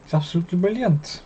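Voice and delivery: a hint of a Welsh lilt on the praise; light Welsh accent. Co-host praises Johnny Clayton in a light Welsh accent. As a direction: slip into a mild Welsh accent, half joking. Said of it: "You got your Welsh on the go".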